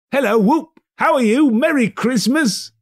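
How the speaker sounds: high, loud gleeful hail; joyful calling out. Acted. Scrooge hailing the turkey man, high and loud. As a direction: call it out in pure delight.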